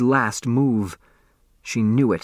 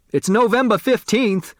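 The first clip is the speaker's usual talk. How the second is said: much higher, excited cry; cried out; 10 semitones higher than usual. A narrator's reading. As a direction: blurt it out high and excited. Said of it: "Otis Amber cried".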